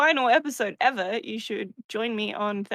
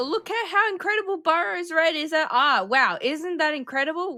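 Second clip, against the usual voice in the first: sarcastic; 3 semitones higher than usual. Acted. Sarcastic mock praise of Burrows.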